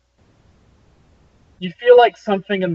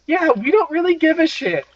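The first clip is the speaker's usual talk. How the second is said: muffled coffin voice; 12 semitones higher than usual. Acted.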